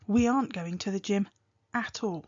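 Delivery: an answer with "at all" split off after a pause; stressed answer. Shown as a demonstration. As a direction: pause before "at all" and set it apart. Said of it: "think about how you stress a word".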